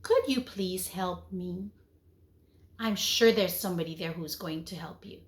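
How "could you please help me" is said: calm and respectful. Shown as a demonstration. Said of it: "use your calm and respectful voice".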